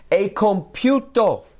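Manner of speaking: high, loud, slow proclamation; loud, drawn-out declaration; triumphant cry. Acted. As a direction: cry it out as a finished victory. Same words again as a cry.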